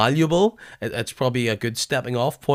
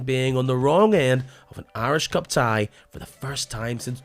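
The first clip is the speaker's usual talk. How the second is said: scripted show opener with measured dramatic pauses; podcast intro read. Real, not acted. Host welcomes listeners to the Irish League podcast, scripted intro read. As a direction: read it as a sports podcast intro, swinging the tune up and down.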